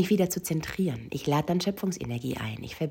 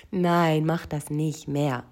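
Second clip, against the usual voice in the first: loud, drawn-out mock protest; retold body scream; 4 dB louder, much slower than usual. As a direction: cry out a slow plea, half-shouted. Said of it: "hat mein Körper da geschrien".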